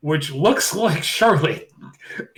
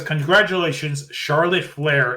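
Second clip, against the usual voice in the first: big banner reading. Retold or imitated. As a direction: read it out grandly like a giant cake banner. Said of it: "in large font".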